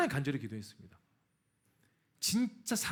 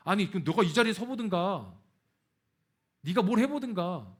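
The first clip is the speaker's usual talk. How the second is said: angry retort; 5 dB louder than usual. Retold or imitated. Preacher reenacts snapping back at sister, loud and indignant. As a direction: fire back at the critic. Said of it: "분노가 나오는 거예요".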